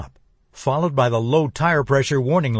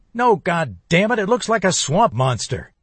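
panicked; 6 semitones higher than usual. Acted. Panicked man yells at operator.

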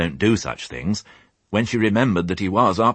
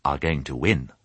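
confident; 2 semitones lower than usual. Acted. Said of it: "in a confident voice".

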